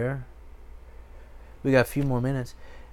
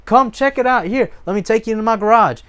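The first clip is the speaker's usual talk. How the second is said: high, loud boastful show-off; hammed-up proud owner showing off; 6 semitones higher, 6 dB louder than usual. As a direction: brag about your gear, grinning. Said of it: "And you go".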